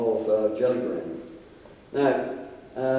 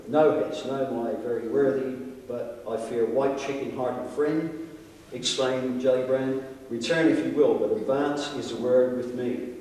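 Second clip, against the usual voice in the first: put-on reading an old account aloud, measured and dramatic; formal storytelling with lightly acted dialogue; story narration. A narrator's reading. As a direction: read it out like an old-fashioned tale.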